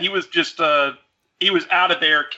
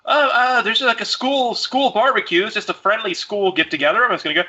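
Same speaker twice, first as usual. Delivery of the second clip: put-on higher, fumbling teen fibbing to his mom; nervous excuse; 6 semitones higher than usual. Son lying to his mom about the party, higher fumbling voice. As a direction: stammer like a kid covering a lie.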